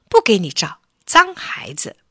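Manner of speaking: lightly voiced toy puppet, disdainful; puppet refusing. Puppet turns away the dirty boy, lightly scolding.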